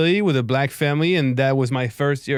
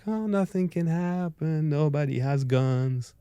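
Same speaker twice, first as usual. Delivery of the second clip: 1 carefree; 5 dB quieter, slower than usual. Retold or imitated. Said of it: "you're like".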